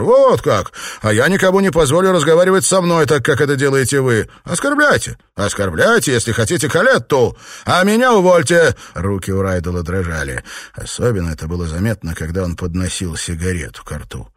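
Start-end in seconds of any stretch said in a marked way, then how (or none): 0.0-8.8 angry retort. Acted. Lover fights back at husband.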